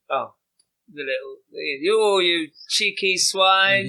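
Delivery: stretched-out pretend scolding; mock indignant shout. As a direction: ham up an offended yell at a cheeky runner. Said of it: "you don't go".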